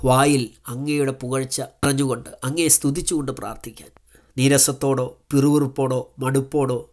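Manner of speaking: fervent spoken prayer to God; a pastor praying over his listeners; earnest prayer. Acted. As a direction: pray aloud for the listeners. Leads a prayer.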